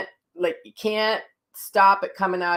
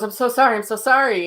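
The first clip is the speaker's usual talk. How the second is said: startled apology; 5 semitones higher, 6 dB louder than usual. Retold or imitated. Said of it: "And she goes".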